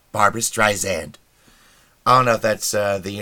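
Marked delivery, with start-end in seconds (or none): 0.1-1.1 "Streisand" said with a z, Strei-zand; Siri's mispronunciation. Acted. Siri answering who is the biggest pain, z in "Streisand". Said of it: "one of the biggest criminals of this offense is Siri".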